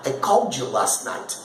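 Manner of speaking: "called you" as call-djoo, past ending hidden; linked speech. Shown as a demonstration. Film character mentioning a call, linked past ending. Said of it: "o cara nem falou o passado".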